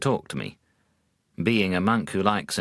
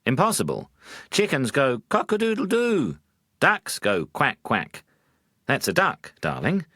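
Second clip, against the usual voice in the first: higher, impatient husband correcting his wife; first signs of irritation; 7 semitones higher than usual. Acted. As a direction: let the irritation start to show. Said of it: "with the first signs of irritation".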